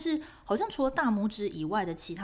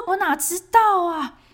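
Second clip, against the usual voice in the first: much higher, louder, drawn-out protest; how should I know, said in exasperation; indignant retort; 10 semitones higher, 11 dB louder, slower than usual. Retold or imitated. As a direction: inner outrage at the officer, much higher and slow. Silent indignant retort in thought.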